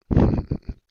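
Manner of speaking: big unvoiced laugh; loud burst of laughter. Real, not acted. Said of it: "I'm laughing 'cause".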